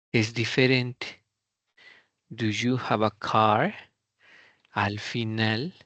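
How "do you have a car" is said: yes-no question demo with the stress at the end; rising end stress. Shown as a demonstration. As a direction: Do you have a car? with the force saved for car at the end. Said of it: "Al final, ahora es en donde acentuamos".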